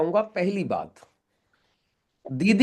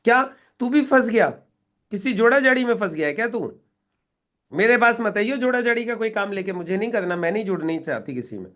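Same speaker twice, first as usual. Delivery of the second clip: mocking refusal; 3 semitones higher than usual. Sister rejects cousin's scheme, mocking then dismissive. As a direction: wave him off, you want nothing to do with it. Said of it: "ये response आ सकता है सामने से".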